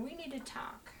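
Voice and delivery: high, soft insistent nag; voiced cards nagging. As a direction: pitch it up but keep it hushed. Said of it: "Like, they're going".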